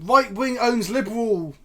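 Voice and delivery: slow, loud mocking headline read. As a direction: sneer it like a clickbait title. Mock clickbait headline.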